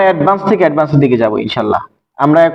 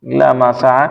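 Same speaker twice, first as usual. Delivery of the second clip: Quran recitation. Shown as a demonstration. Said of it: "আল্লাহ বলছেন".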